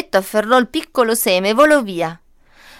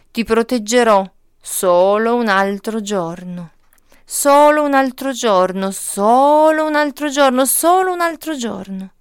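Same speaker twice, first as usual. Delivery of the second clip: insistent repeating; 4 dB louder than usual. Acted. Tree protecting seed, repeating.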